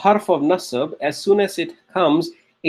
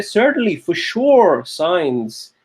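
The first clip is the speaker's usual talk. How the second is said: for sure lifted and stressed; emphatic translation; much slower than usual. Shown as a demonstration. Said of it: "You say".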